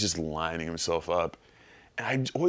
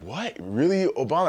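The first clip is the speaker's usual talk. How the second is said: high incredulous question; disbelieving at the request; mock surprise; 9 semitones higher than usual. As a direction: fan asked by Obama to beat a dog. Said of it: "I'd be like".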